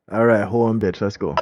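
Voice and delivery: straining into a push-up set; doing push ups. Real, not acted. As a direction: talk as you start push-ups. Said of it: "It's a push-up challenge".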